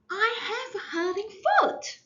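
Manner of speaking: high, loud, crying shout. Acted. Child wailing from far behind about her foot. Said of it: "so I had to shout".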